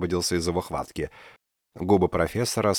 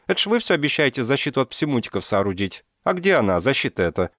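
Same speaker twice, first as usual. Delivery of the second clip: put-on reproachful girl; 6 semitones higher than usual. A narrator's reading. Dinka reproaches the professor over the missing shield. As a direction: needle him about his promise.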